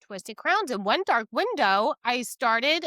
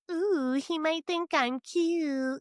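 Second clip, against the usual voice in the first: mock swooning crush; 5 semitones higher, slower than usual. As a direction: play a giddy schoolgirl with a crush. Mocking missing romantic flutter.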